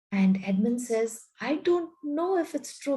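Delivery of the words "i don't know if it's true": put-on scared boy. Edmund's frightened reply.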